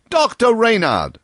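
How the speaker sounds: high loud hail repeated; loud repeated call to Doctor Reynard; calling out again. A narrator's reading. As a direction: keep hailing across the road. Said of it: "calling out".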